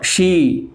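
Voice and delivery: "शी" with a slightly lengthened "ee"; long ee vowel. Shown as a demonstration. Teacher showing the big ई sound, "शी" drawn slightly long. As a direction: hold the vowel of "शी" a little long. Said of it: "बोलने में भी थोड़ा लंबा".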